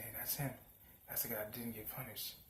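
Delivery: mild whispered gossip; whispering. Retold or imitated. Classmates gossiping about Boruto, hushed whisper. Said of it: "someone's whispering saying".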